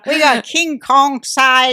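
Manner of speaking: slow, high mock Asian accent; drawn-out exaggerated Asian accent. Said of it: "I'm gonna do my Asian accent now".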